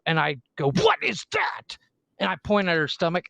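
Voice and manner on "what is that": put-on high, slow teasing question to a small child; silly high dad voice. Dad teasing his daughter on the stairs, high playful voice.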